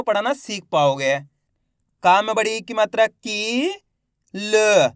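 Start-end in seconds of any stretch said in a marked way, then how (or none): 2.0-3.7 spelling out, with the final "की" held long; drawn-out long vowel. Shown as a demonstration. Teacher spelling the next word, final "की" drawn out. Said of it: "खींच खींच के पढ़ेंगे". 4.3-4.9 "ल" as a bare l with a short schwa; half-sounded last letter. Shown as a demonstration. Teacher sounding the last letter, "ल" only half voiced. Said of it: "last वाले अक्षर का उच्चारण आधा करना है".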